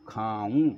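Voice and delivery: खाऊँ drawn out with a nasal final oo; khaa-oon, nasalised खाऊँ; nasal ending. Shown as a demonstration. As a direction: end खाऊँ slowly in the nose. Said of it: "खाऊँ नहीं".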